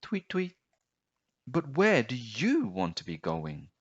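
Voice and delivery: high, light bird voice with a chirped tweet; chirpy bird. Acted. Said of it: "as the bird asked".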